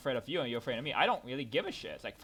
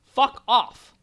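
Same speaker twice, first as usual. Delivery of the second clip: loud, high furious yell; exasperated yell at family; angry shout; 12 semitones higher, 19 dB louder than usual. Real, not acted. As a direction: spit it out at full volume. Ranting at family.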